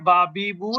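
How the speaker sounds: "বাবিবু" with a Bengali ব sound; letter demonstration. Shown as a demonstration. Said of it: "এটা বাংলা বয়ের মতন উচ্চারণ হয়". ("বাবিবু" বাংলা বয়ের মতন উচ্চারণে)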